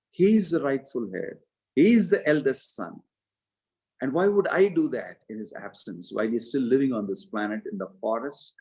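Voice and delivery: how dare you, hurled at his mother; indignant rebuke. Acted.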